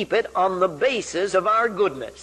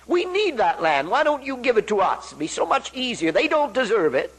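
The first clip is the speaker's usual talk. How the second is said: whining rationalizing; 5 semitones higher than usual. Retold or imitated. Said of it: "we could have said".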